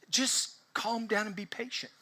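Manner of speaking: soft, hushed advice to settle down; mock soothing advice. Speaker acts out advice to a spouse, soothing. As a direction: drop the volume as if calming someone.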